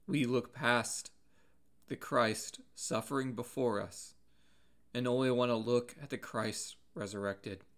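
measured preacher's restatement, pausing between phrases; deliberate repeat. Real, not acted. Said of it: "I want to say that again".

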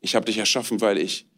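God speaking tenderly. Acted. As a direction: speak as a loving father to his child. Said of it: "Dass Gott dich anschaut und er sagt".

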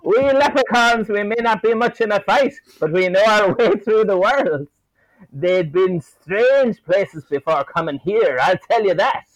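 high, lilting leprechaun voice. Retold or imitated. To Phoebe, a leprechaun telling of strange realms, high-voiced. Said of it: "he replies to Phoebe saying".

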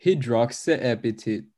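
"Hydroxyapatite" with short i's, hid-rox-uh-AP-i-tit; short-i pronunciation. Shown as a demonstration. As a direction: say "Hydroxyapatite" slowly, every i as in "hit". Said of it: "it's still pronounced high".

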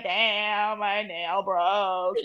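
slow, drawn-out lament; retold annoyance. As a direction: drag it out, mock-mourning the loss. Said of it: "you know, so I'm pissed".

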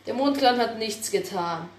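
a calm retake of the line; calmer. Acted. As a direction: say Der Mondclan hat nichts getan calmly.

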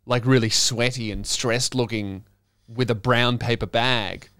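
normal talking voice

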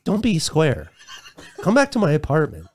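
seductive cat voice. Acted. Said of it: "way more hot than he needs to be".

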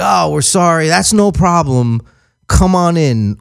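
lightly sugary service voice; mock-friendly service guy. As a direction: play the smooth dealer rep soothing an upset customer. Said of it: "He's like".

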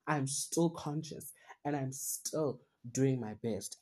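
calming self-talk. Retold or imitated. Calming self-talk after a sigh.

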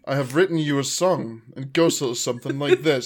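flat, emotionless deadpan delivery. Pretend. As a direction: say it totally deadpan. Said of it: "in a deadpan voice and just going".

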